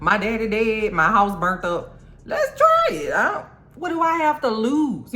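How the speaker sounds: nothing-to-lose bravado, voiced for laughs; Lord Darkling voiced. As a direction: pitch jumps high on let's try it. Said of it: "Lord Darkling is like".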